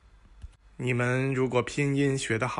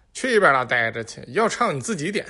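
rude brush-off; 5 dB louder, faster than usual. Acted. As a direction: shove them off with a loud snap. Xiaoming snaps at the singer.

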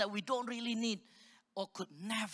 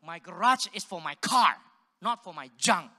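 firm retold declaration; 6 dB louder than usual. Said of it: "I said".

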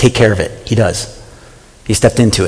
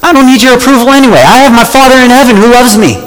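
much higher, breezy brush-off; dismissive retort; 12 semitones higher than usual. Pretend. Preacher answering someone who dislikes him, breezy and dismissive. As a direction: wave them away, unbothered.

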